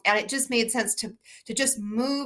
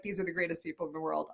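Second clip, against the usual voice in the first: put-on child's awed thought; 11 dB quieter, faster than usual. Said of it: "And I was like".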